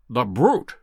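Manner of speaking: a sharp outburst of disgust; angry cry. A narrator's reading. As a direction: spit it out in disgust. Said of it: "cried Holmes".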